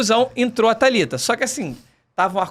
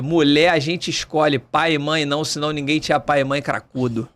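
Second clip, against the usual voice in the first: stern priest; 4 semitones lower than usual. Retold or imitated. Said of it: "meio Capitão Nascimento".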